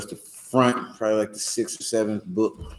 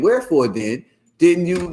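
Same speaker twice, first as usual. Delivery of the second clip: WHEREFORE raised high, as a question; asking inflection; 8 semitones higher, slower than usual. Shown as a demonstration. Teacher showing how to ask it, high questioning WHEREFORE. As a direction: ask it, pitched up from WHEREFORE onward. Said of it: "like I'm asking this qu".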